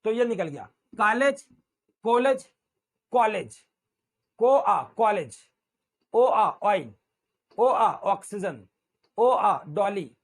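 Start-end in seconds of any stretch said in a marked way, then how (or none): 1.0-3.7 कॉलेज starting on o and sliding to aa; gliding vowel. Shown as a demonstration. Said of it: "ओ और आ को मिला के". 4.4-10.1 ओ आ drawn out, then the word with the glide; slow drill, o sliding into aa; vowel glide drill. Shown as a demonstration. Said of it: "पहले ओ फिर आ".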